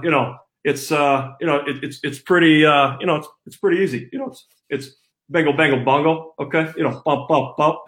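lightly voiced football coach, folksy and halting; a hint of the old coach rambling with lots of "you know"; light imitation of a head coach talking to press; Kirk Ferentz impression. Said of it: "recreate for us in his voice".

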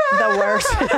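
words broken up by real laughter; can barely get it out for laughing; laughing through words. Real, not acted. Laughing at the fake fight.

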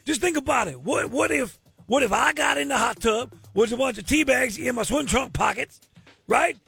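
lightly put-on Cajun man voice; bad Cajun accent, hammed up. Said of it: "my very bad Cajun man impersonation".

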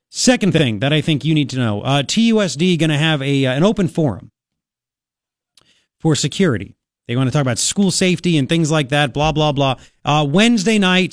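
brisk talk-radio delivery; radio host read. Acted. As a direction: read the segment for listeners on air.

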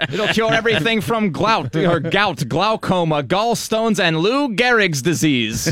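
lightly voiced slow pitchman; a hint of a carnival barker; snake oil seller. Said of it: "a band's medicine show".

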